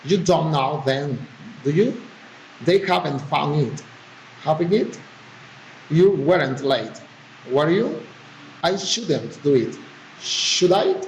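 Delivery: level statements, then "do you", "were you", "Should I" turned upward; tag-question intonation. Shown as a demonstration. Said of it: "filing or rising intonation".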